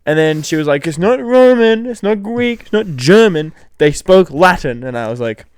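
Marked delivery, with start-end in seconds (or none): 0.9-4.8 mock mum yell. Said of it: "scream at them".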